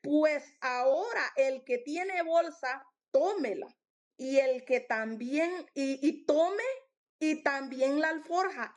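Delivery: slow, measured scripture quotation; deliberate preacher quoting with authority; weighty authority. Acted. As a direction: read it out slowly as a command. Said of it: "se siente un peso de autoridad".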